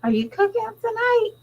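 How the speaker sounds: put-on high, eager kid voice; kids asking. Kids asking their mother about dinner, mock high voice. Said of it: "My kids was like".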